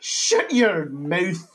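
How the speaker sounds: loud, drawn-out Irish attempt, breaking into laughter; bad Irish accent. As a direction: have another giggly go at an Irish shout. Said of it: "I can't even do an Irish accent".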